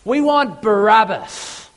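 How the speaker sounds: a lightly voiced crowd answering back; crowd demand. The crowd answers Pilate with a mild, voiced demand. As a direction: chant it like the crowd would. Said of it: "They say".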